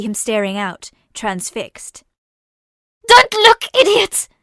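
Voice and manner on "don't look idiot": high, loud frightened snap; snapping. Acted. Sister snaps at her brother amid the carnage, loud and high. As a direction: snap at him to look away. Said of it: "she snapped".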